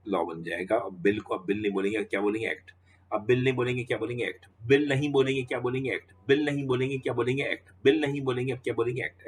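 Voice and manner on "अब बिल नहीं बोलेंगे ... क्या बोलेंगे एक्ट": teacher chanting the question and answer to the class, rising; building classroom drill. Shown as a demonstration. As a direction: drive the refrain home, climbing each time. Teacher repeats drill, pitch building.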